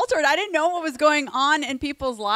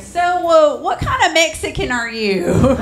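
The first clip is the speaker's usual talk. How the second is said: higher, louder mock-curious question; nosy stranger; 6 semitones higher, 7 dB louder than usual. Strangers guessing the comedian's ethnicity, a high mock-curious voice. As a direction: ask it like a well-meaning but clueless stranger. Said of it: "they'd be like".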